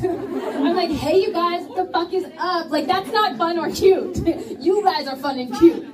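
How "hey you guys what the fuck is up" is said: higher, hammed-up twangy greeting; playful mock twang; mocking own accent. Shown as a demonstration. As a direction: ham up her own accent. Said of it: "We sound like this".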